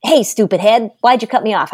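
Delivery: mild mock yell at a driver; retold yell. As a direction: re-enact yelling at a bad driver, held back. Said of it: "I yelled and said".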